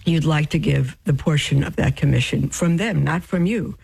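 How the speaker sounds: talking through hiccups. Real, not acted. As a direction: speak with small hiccups breaking in. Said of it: "I'm, I'm hiccuping now".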